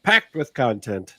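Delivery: put-on old Hollywood Mid-Atlantic accent; lightly put-on Mid-Atlantic accent. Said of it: "I've got a Mid-Atlantic accent now".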